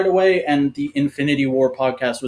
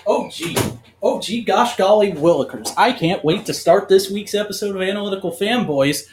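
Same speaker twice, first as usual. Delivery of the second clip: fake wholesome; 2 semitones higher than usual. Over-the-top wholesome cold open.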